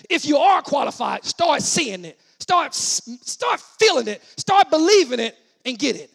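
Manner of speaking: emphatic, building exhortation; punchy pulpit repetitions; rousing preaching. Acted. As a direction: urge the congregation on. Preaches at full force.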